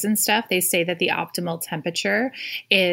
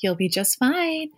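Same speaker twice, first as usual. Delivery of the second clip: calm soul voice; 5 semitones higher, slower than usual. Retold or imitated. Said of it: "the soul voice comes in and says".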